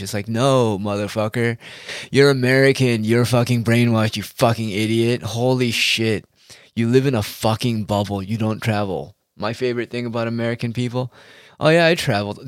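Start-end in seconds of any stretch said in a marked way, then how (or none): 0.3-9.2 angry shout. Retold or imitated. Imagined retort to a brainwashed American.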